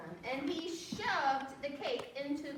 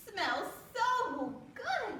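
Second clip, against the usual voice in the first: slow excited delight; 9 semitones higher, 3 dB louder, much slower than usual. Acted. Mother smells cake.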